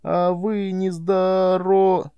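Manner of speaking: high, slow stuttering cut-off; boy stuttering in shock; stammering. A narrator's reading. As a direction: stammer it out and break off. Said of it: "я стал заикаться".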